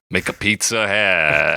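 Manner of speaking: hammed-up Italian accent; mock Italian accent. Joking that everyone picks on Italians, mock Italian accent. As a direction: put on a jokey Italian accent, stretching the last word. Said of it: "just do an Italian one".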